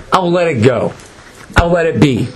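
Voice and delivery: dropped back to an easy pitch; resigned letting go. Retold or imitated. Satan deciding to let the match be, resigned. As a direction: concede it and back off.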